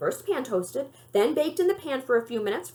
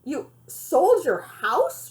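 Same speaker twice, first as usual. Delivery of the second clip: stunned; 4 semitones higher, much slower than usual. Acted.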